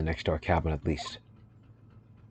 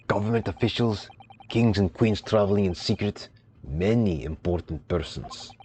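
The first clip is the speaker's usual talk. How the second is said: a hint of a gruff Russian accent; proud sailor, lightly put-on Russian accent; lightly voiced Russian sailor.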